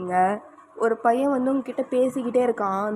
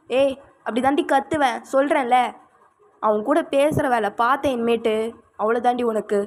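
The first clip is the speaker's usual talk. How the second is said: angry shouting. Acted. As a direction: shout her down, furious and possessive. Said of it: "கத்தாதீங்க".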